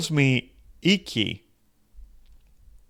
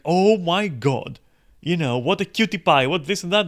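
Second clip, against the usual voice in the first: gushing; 5 semitones higher, 4 dB louder than usual. Retold or imitated. Smitten fan gushing over the streamer, hammed-up excitement. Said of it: "And she's like".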